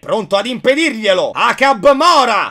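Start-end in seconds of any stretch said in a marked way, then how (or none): 1.3-2.5 shouted spell. Acted. Spell cast in dub.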